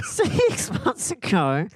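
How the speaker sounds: high, slow nasal Aussie; mock Australian accent. Echoing mate amid laughter, put-on Australian accent. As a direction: draw out "Six" in pretend Australian. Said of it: "My nose is sore now".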